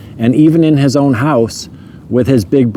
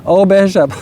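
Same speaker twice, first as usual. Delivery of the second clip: higher, tearful mock sob of a name; imitating crying mom; 5 semitones higher than usual. Son retells mom's tearful reaction, imitating her higher tearful voice. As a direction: voice the mother weeping over her son, half-laughing. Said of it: "she was crying and she kept saying".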